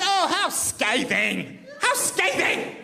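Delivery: lightly mimicked prim woman, slow and disapproving; a hint of an offended lady tutting; upset woman. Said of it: "The woman got a bit upset".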